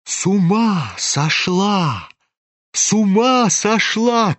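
rising alarmed exclamations; the crowd gasps in shock, slowing; shocked cries. Acted. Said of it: "кричали кругом". (гости в ужасе кричат)

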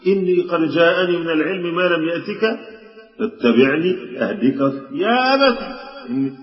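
high, earnest pleading "يا أبت"; Abraham pleading with his father, high and insistent; pleading son. Retold or imitated. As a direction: beg the father over and over. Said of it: "وهو قاعد يلح على أبوه".

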